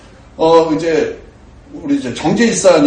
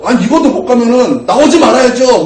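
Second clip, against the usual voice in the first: higher and louder, a hammed-up quarrel line; mock angry retort; 6 semitones higher, 5 dB louder than usual. Woman scolding the driver in the alley, mock angry. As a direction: imitate the woman hitting back in the alley.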